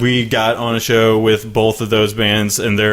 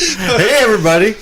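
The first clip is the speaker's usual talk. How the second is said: hyped intro greeting; 10 semitones higher than usual. Acted. Restarting intro, hammed up greeting.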